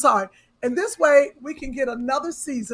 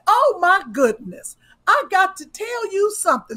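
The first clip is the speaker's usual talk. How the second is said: excited; 8 semitones higher, 7 dB louder than usual. Retold or imitated. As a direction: gush it out, voice up high. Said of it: "she said".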